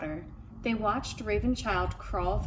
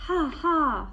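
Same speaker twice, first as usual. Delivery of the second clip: trickster tale voices; 7 semitones higher, 5 dB louder than usual. A narrator's reading. Bird laughing in story.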